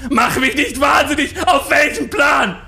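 screaming in a high-pitched fury; berserk rage. Acted. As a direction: rant at the staff, loud and high. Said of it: "Zadek bekam einen Tobsuchtsanfall".

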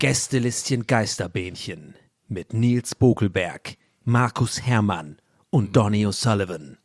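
smooth ad-read voice; advertising voice. Acted. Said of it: "wenn ich meine Werbestimme mache". (Werbestimme wie im Radio)

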